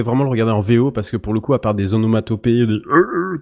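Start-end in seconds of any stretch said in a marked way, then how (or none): 2.7-3.4 higher-pitched wordless grunts; imitated onomatopoeia. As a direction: imitate mumbled noises, pitched up. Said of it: "comme ça".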